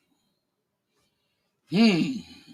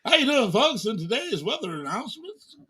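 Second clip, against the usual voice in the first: TV announcer voice; 6 semitones higher than usual. Pretend. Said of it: "I can feel like a T V announcer".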